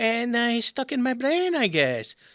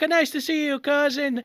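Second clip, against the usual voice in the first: higher-pitched polite reply to a cousin; lightly acted greeting, less emphatic; returned greeting; 3 semitones higher than usual. Guest answering his cousin's welcome, mild polite greeting. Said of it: "And I'm like".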